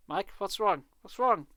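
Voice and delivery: frightened. Acted. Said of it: "a frightened expression on her face".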